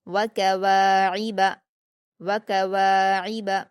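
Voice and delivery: व कवाइब recited slowly, the वा held for two beats; quick short syllables, long वा, throaty ain in व कवाइब; stretched long vowel. Shown as a demonstration. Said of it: "दो हरकत खींचकर पढ़ेंगे".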